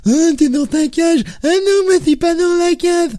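high, slow, silly mocking whine. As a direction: parody the wrestlers with scorn.

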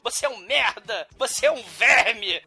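hammed-up scornful wife; imitated melodramatic contempt; mock defiance. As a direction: declaim each insult theatrically, phrase by phrase. Acts out the wife defying her husband.

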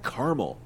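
"caramel" as CAR-mul; two-syllable pronunciation. Shown as a demonstration. Host admits the other version, "caramel" as CAR-mul. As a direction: say "caramel" short, KAR-mul. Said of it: "Oh, but I've said".

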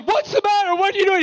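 high, startled questions; mock alarmed detective. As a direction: play a method actor thrown off. Imitating Paul, method actor, alarmed.

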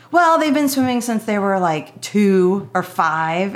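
retold irritation, stretching the numbers out; pissed-off retort. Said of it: "I was so pissed".

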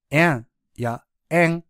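あん shifted to えんやえん, with a fronted e-like vowel; southern French nasal vowel. Shown as a demonstration. Teacher showing learners regional French vowels, southern nasal pronunciation. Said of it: "南仏やアフリカ諸国では".

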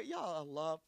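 soft, hushed, timid begging; shy plea. Retold or imitated. Old Zakaria shyly begging his Lord for a child. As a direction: ask like an old man too shy to ask. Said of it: "he asks in a shy".

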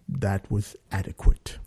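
low, restrained verdict from a director; low and soft, measured delivery; booming director voice. Retold or imitated. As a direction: imitate a deep-voiced director giving faint praise. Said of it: "it's like James Earl Jonesy".

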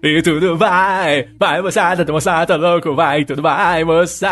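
hint of a hyped rock frontman impression. Host mimicking a rock singer for co-hosts, drawn-out frontman impression. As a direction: stretch the words like a frenzied stage singer. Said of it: "imitação de um cantor de rock".

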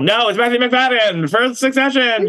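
high, loud mock celebration; excited reveal. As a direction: burst out with the winner. Mock surprise at winner.

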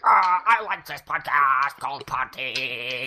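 drawn-out mock fan voice; listener impression. Host mimicking a fan praising the podcast, slow mock voice. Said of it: "and then you're like".

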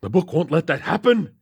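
calm him with eerie confidence; assuring. A narrator's reading. Captain assuring Lakely, lightly voiced madman. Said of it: "he assured".

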